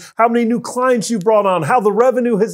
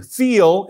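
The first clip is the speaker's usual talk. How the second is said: "feel" drawn out slowly; single out "feel", stretching it; stress on feel. Shown as a demonstration. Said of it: "emphasis on the feel".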